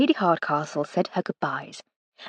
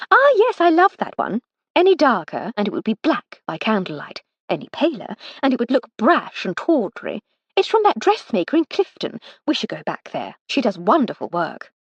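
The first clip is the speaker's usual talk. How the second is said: higher, breezy aristocratic enthusiasm; Lady Hardcastle, gushing; 3 semitones higher than usual. Acted. Lady Hardcastle defending a frock she ripped, higher and gushing. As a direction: gush a little too much over the dress.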